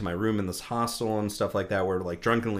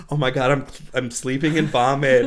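louder, laughing panic; rising disgust, half laughing; panicked self-quote; 6 dB louder than usual. Retold or imitated. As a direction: panic about the vomit pillow, laughing. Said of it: "And I'm just like".

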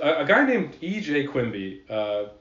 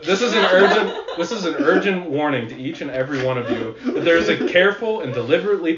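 put-on old-timey voice; 3 semitones higher, 5 dB louder than usual. Shown as a demonstration. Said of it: "I should read this in the old-timey voice".

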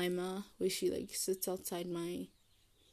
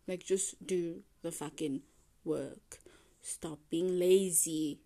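self-scolding; slower than usual. Real, not acted. Scolding herself to work.

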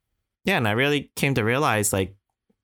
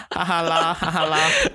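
mocking Singlish laugh, pitched up; 6 semitones higher than usual. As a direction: imitate a Singlish ha ha la. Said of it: "they're laughing in Singlish".

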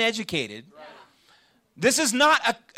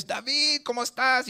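calling out a greeting; 5 semitones higher than usual. Retold or imitated. Preacher recalls seeing a student on campus, calling out a greeting. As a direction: re-enact hailing a friend from afar.

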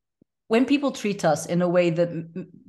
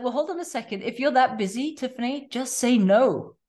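self-scolding; 5 semitones higher than usual. Retold or imitated. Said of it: "one day I was like".

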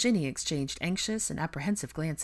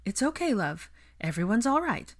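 put-on higher-pitched soothing of a child; reassuring; 6 semitones higher, 3 dB louder than usual. A narrator's reading. A mother comforts her frightened son, reassuringly. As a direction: comfort a little one, mildly sing-song.

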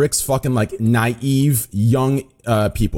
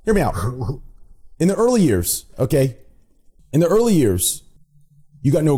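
FaZe Clan accent; 3 semitones higher than usual. Real, not acted. Streamer restarting his explanation to the group, in a FaZe Clan accent. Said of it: "it's the Face Clan accent".

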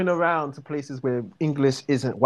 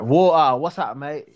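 Water, what's up, mate in a light Cockney accent; a quick Cockney greeting; 4 dB louder than usual. Shown as a demonstration.

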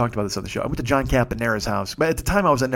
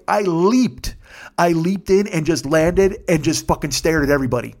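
excited; 4 semitones higher than usual. Real, not acted. Reliving excited leap.

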